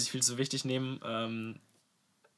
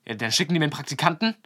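fast, louder incredulous question; mock outrage; 3 semitones higher, 5 dB louder, faster than usual. Rink owner hearing he got an intern, imitated as indignant. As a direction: imitate his indignant disbelief, quickly. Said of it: "dann ist er so ausgerastet".

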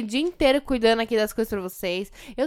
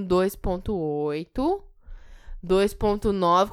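dragged-out count; 3 semitones lower, much slower than usual. Retold or imitated. Mother stalling the count.

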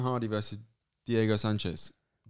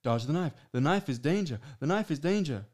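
imitating the trainer; 3 semitones higher than usual. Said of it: "his trainer would chase him around with a knife saying".

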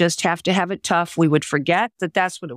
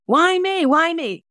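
retold scream; 12 semitones higher, slower than usual. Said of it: "used to scream".

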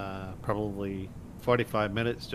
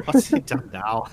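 put-on old lady voice; 4 semitones higher, 7 dB louder than usual. Cypher reacts to the text.

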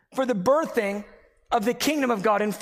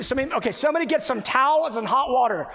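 higher, mock-panicked orders; freaking out; 5 semitones higher, 3 dB louder, faster than usual. Husband scrambling as his wife's labor starts, mock freak-out. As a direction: call out comically frantic orders. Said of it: "I started freaking out".

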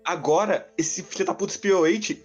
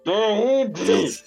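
laughing; 4 semitones higher than usual. Real, not acted. Laughing disbelief at scene.

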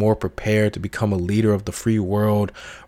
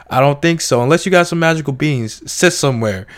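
dismissive wife; 4 semitones higher, 5 dB louder than usual. Retold or imitated.

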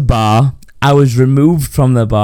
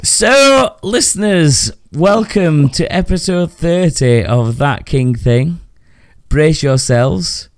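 slow announcer intro; 3 semitones higher, slower than usual. Acted. Podcast intro, slow host.

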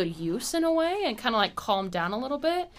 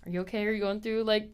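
soft, quiet, caring question; gentle check-in; 5 dB quieter, faster than usual. Retold or imitated. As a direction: ask softly, reassuring. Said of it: "I'd be like".

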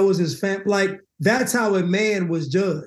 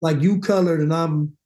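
mock racist white woman; 3 semitones lower than usual. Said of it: "sounded like a racist white woman".

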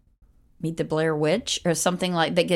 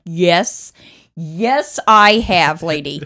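emphatic yes; 8 dB louder, much slower than usual. Retold or imitated. Emphatic retold reply.

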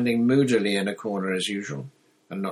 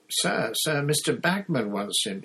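higher, anxious schoolboy stammering to teacher; nervous; 6 semitones higher than usual. A narrator's reading. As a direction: plead timidly with a stern teacher. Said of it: "he said nervously".

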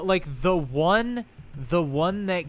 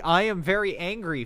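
hammed-up fake anger, higher and louder; mock angry; 5 semitones higher, 4 dB louder, faster than usual. Shown as a demonstration. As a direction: play at being very angry. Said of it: "pulls out his yelly face".

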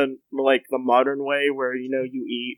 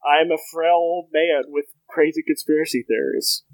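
lightly voiced frail old man; a hint of an old politician; Ron Paul; 3 semitones higher than usual. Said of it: "I wear Ron Paul's skin like a hoodie".

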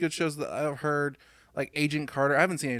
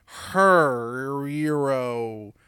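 very slow, loud drawn-out proclamation; hammed-up heroic announcement, hugely drawn out; mock movie hype; 2 semitones lower, 5 dB louder, much slower than usual. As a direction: stretch it out like an overblown trailer. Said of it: "it was just like".

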